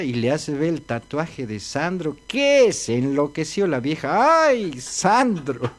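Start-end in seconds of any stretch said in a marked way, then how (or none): 4.5-5.7 swooning fan. Acted. Old woman swoons over idol.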